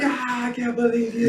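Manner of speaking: high, slow put-on monster whine; mock frustrated Godzilla. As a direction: voice Godzilla grumbling at the escape. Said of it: "he's like".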